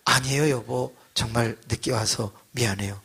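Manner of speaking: softly imitated gentle wife; a little low and soft, lightly acted contrition; meek apology. Wife apologizing to husband for lateness, lightly voiced meek tone.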